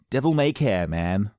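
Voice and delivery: a light stab at a carefree skater voice; tossing it off like a reckless skater; mildly hammed-up skater dude; skater talk. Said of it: "That's how they talk".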